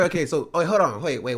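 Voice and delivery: loud sudden double take; surprised. Real, not acted. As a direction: stop everything, caught off guard. Sudden realization, loud high.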